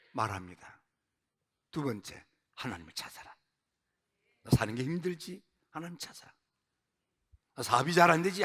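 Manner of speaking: soft, low, close pastoral address; hushed sermon. Acted. Pastor confiding to struggling congregation, hushed and soft. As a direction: lean in and speak gently to each listener.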